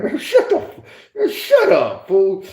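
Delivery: high, loud "shut up" shout; mock yell. Telling cellmate to shut up, mock shout. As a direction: yell it back at him half-laughing.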